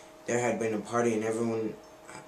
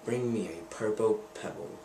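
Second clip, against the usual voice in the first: magic lizard. Acted. Narrator voices the magic lizard.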